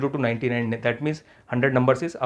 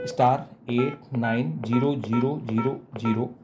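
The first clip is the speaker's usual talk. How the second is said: slow, measured digit count; dictating keyed digits. Shown as a demonstration. Trainer dials the password to renumber an extension, slowly dictating. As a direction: read it out key by key. Reading code aloud while dialling demo.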